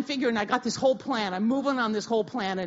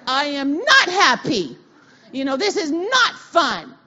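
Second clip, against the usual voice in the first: upset complaint; 5 semitones higher, 8 dB louder than usual. Retold or imitated. Tearful complaint to God.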